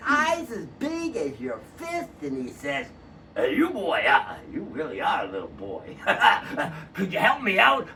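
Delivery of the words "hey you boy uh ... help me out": lightly voiced old man hollering down; a hint of a thirsty old man; little old man calling. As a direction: chuckle then plead for water. Old man calls down again.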